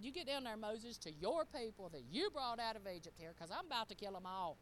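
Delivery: a touch of stern disowning, stress on your people; mock exasperated God. Preacher voices God disowning the people to Moses, mildly exasperated. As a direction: retell God fed up, mildly emphatic. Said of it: "That's the way he said it".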